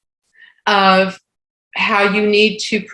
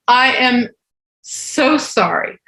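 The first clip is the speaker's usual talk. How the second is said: mock-tearful, higher and slowing down; retold sobbing apology; 5 semitones higher, slower than usual. Waitress apologizing to her table after breaking down, imitated tearful apology. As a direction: imitate apologizing through sobs.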